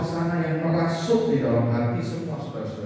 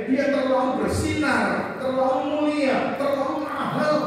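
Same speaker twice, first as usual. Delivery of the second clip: higher and slow, overwhelmed with awe; awed cry; 10 semitones higher than usual. Acted. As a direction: let each phrase rise in wonder. Inner prayer, overwhelmed by awe. (kagum, lebih tinggi dan pelan)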